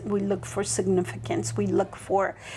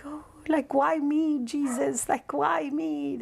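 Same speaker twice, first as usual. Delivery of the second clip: a touch of tearful awe, higher; humbled awe; 5 semitones higher, slower than usual. Retold or imitated. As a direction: plead lightly, wondering why. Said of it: "I'm being humble".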